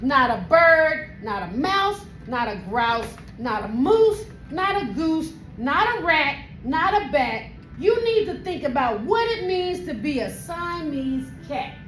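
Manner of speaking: lecturing mother. Acted. Mother telling kitten what a cat is, lecturing. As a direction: lecture in a hammered list. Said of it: "The lecture went on and on".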